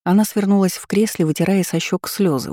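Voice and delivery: ordinary delivery, nothing marked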